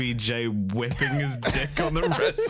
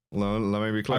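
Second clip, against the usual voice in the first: lower-pitched, halting presidential impression; Obama; 6 semitones lower than usual. Co-host echoing the presidential catchphrase, low halting impression. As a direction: try out a deliberate statesman's voice. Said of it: "projection for my Obama".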